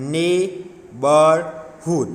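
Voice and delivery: very slow "neighborhood", nei... bour... hood; syllable by syllable. Shown as a demonstration. Teacher dictating a longer word, slowly syllable by syllable. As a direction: break "neighborhood" into three separate beats. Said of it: "Word that have more than one syllable".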